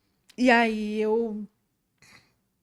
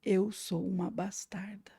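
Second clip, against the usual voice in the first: whispered cry; 7 dB quieter than usual. Retold or imitated. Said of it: "eu comecei a gritar".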